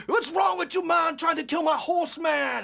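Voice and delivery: put-on high, shouted Jamaican-accented rant; mock Jamaican scolding at high pitch; yelling Jamaican accent. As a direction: do a furious Jamaican trail guide, hammed up. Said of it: "in his Jamaican accent".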